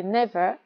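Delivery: "never" with the weight on NE; "never", strong beat then weak beat; stress on first syllable. Shown as a demonstration. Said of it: "gros rond sur la première syllabe".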